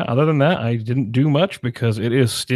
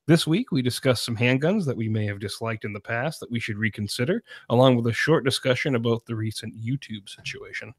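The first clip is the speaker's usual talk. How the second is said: upbeat radio show opening and sponsor read; host opening his handgun radio show; podcast host intro. Acted.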